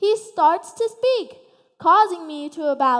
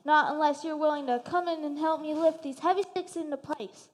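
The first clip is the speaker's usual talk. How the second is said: grumbling pig voice; 2 semitones lower, 7 dB quieter than usual. Acted. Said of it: "the pig replied".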